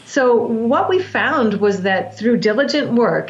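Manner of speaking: "diligent" said slowly, each syllable weighed; stress on diligent. Shown as a demonstration. Coach stressing commitment to the breath work, weighting "diligent". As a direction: lean slow and deliberate on "diligent". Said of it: "and I wanna stress the word diligent".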